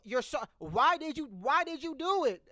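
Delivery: demanding an explanation; baffled question. Retold or imitated. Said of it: "I'm like".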